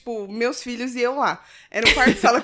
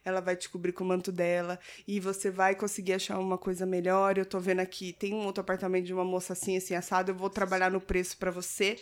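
quoting pious manager softly; 4 semitones lower, 7 dB quieter than usual. Retold or imitated. Quoting the building manager's pious comfort in a soft, low voice. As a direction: lower and softer, a gentle reassuring lilt. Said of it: "ele falou assim".

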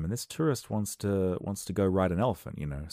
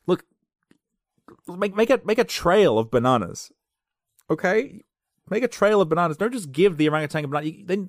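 high, loud frustrated yelling; yelling at the phone; 9 semitones higher, 8 dB louder than usual. Retold or imitated. Viewer yelling advice at the tourists, high and loud. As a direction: lecture the tourists through the screen. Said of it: "yelling at my phone".

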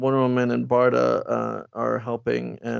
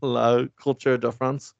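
put-on French accent.

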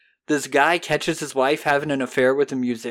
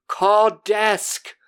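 loud, higher, gasping demand; frantic cry for help; 7 semitones higher, 4 dB louder than usual. Retold or imitated. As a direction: shout it high like a man having a heart attack. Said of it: "And he's like".

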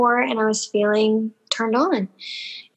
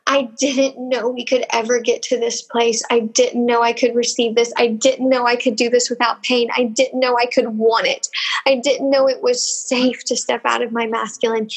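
tearful; 3 semitones higher than usual. Real, not acted. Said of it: "Oof, now here I go".

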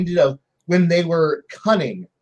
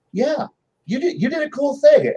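higher, indulgent "you did a cool thing"; mock praise; 8 semitones higher than usual. GM humouring a player bragging about a cool move, mock praise. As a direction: humour them like a proud parent.

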